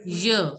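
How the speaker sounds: "Yeah" as "yuh", like the start of yummy; y sound. Shown as a demonstration. Teacher showing the yummy sound, pronunciation model. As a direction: model "Yeah" with a short vowel, falling. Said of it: "Like the way you say yummy".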